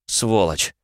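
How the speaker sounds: a rasped curse from the ground; hoarse curse. A narrator's reading. Fallen hero curses the escaping spirit, hoarse rasp. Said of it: "прохрипел".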